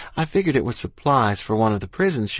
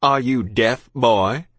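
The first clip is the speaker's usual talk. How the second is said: louder, irritated British officer; officer snapping; 5 dB louder, much slower than usual. A narrator's reading. Officer to questioning child, snapped and loud. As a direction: snap it at an impudent child. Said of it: "he snapped".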